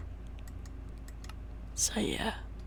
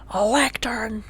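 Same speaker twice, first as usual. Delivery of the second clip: excited. Real, not acted. Same word said aloud.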